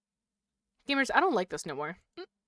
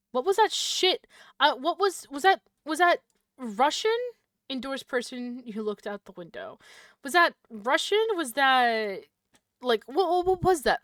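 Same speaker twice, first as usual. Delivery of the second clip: loud, high, startled questions; alarmed shouting; 4 semitones higher, 7 dB louder than usual. Real, not acted. Gamer hears a strange voice, alarmed and loud. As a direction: blurt it out in shock.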